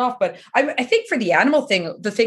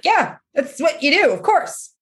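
higher, breezy agreement; casual approval; 6 semitones higher than usual. Retold or imitated. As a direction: brush it off like it's normal. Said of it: "everyone was like".

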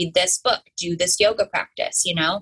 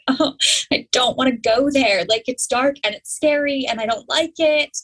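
higher-pitched retold reluctance; lightly voiced dread, pitched up; reluctant protest; 5 semitones higher than usual. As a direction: act out not wanting to go. Retelling her reluctance in therapy.

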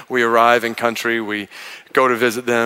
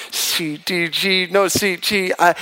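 hesitant chart reading; 5 semitones higher, slower than usual. Retold or imitated. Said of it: "I am struggling".

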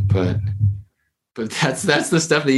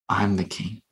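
hushed, softer words; whispering; 6 dB quieter than usual. Retold or imitated. Co-therapist to the man playing Jesus, hushed whisper. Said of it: "he whispers in his ear".

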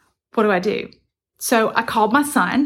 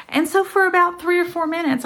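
usual speaking voice

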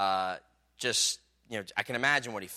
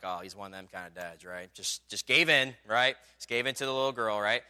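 judging inner thought; 2 semitones lower than usual. Retold or imitated. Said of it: "he's like".

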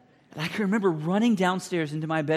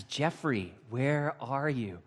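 dad calling slowly; much slower than usual. Retold or imitated. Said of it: "Finally, he says".

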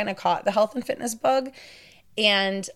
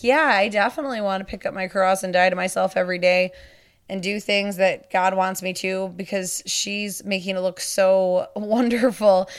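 mildly sarcastic mock enthusiasm. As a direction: feign eagerness with a touch of sarcasm. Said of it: "I'm being sarcastic there".

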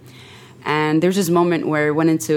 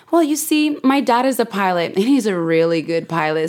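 put-on little girl voice. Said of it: "He was like".

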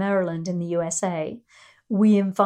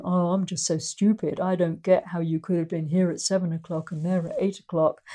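acting dumb; 3 semitones lower than usual. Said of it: "Columbo solved the case by going".

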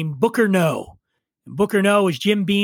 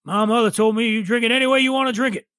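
Kentucky drawl; 3 semitones higher, faster than usual. Retold or imitated. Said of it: "he was the one that says".

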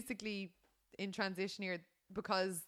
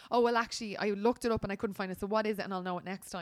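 confident reply; 6 dB louder than usual. Retold or imitated. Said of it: "giving me space to respond to say".

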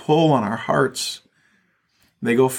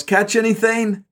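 higher, calling out a question; mild yell; 7 semitones higher than usual. Acted. Guy on the beach to fishermen offshore, yelled question. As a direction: call it like a man hailing a boat. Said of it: "a guy on the beach yells".

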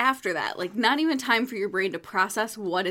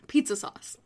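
whispered; 3 semitones higher than usual. Real, not acted. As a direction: breathe the words out. Describing gross taste.

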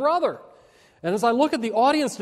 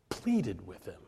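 quiet echo; 13 semitones lower, 11 dB quieter, slower than usual. Shown as a demonstration. Repeats the phrase for effect.

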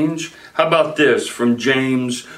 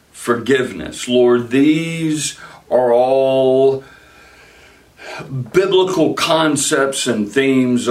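earnest pleading prayer; 3 semitones lower than usual. Real, not acted. Pastor leads closing prayer.

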